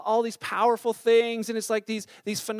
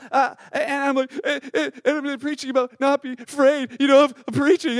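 laughing through; 4 semitones higher, 4 dB louder than usual. Real, not acted. Laughs while retelling crying.

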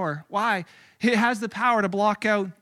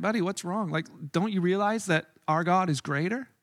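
calm reassurance; 3 semitones lower, 5 dB quieter than usual. Retold or imitated. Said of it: "one guy's standing like".

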